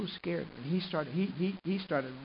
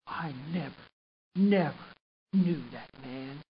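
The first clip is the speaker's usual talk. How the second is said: louder on the second never, then slow; mock cursing denial; 5 dB louder, slower than usual. Peter denying Jesus to the crowd, mild mock anger. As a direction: swear it off, hitting never. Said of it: "Peter began to curse and to swear".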